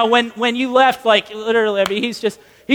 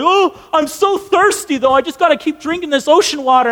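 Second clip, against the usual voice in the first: higher-pitched castaway complaint; thirsty whining; 4 semitones higher than usual. Acted. Castaway to rescuer about ocean water, mock whining. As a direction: plead stubbornly, pitched up. Acted castaway refusing help.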